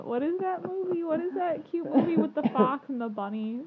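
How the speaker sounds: high, loud, eager questioning; reaching for the name with excitement; excited high voice. Real, not acted. Excited recall of the movie.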